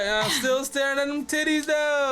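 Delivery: squeaky teasing high pitch; high mock voice. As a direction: go way up high, mocking.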